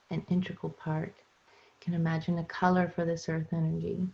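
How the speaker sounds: unhurried guided meditation with long pauses. Acted. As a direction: guide listeners into their bodies phrase by phrase, leaving room between. Resumes leading the meditation.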